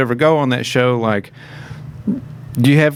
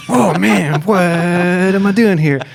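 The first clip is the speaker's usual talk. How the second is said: higher, louder and slow, overplayed dismay; mock dismay; 9 semitones higher, 4 dB louder, slower than usual. The speaker realising the singer is a pro, hammed-up dismay. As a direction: moan it like you're out of your depth.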